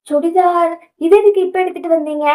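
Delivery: surprised. Acted. Surprised by gift of chudithars.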